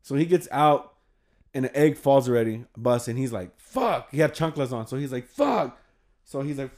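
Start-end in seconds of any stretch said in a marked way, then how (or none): 3.6-5.8 annoyed curse. Retold or imitated. Egg busts on his sandals.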